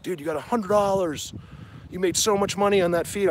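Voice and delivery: lightly acted astonishment; imitated amazed friend. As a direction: mimic a friend marvelling.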